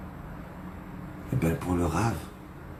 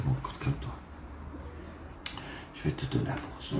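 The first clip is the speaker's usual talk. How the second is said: soft, low hush; calm him down gently; soothing; 4 semitones lower, 15 dB quieter, faster than usual. Acted. Rabbi's wife soothing the panicking guest, soft hushed voice.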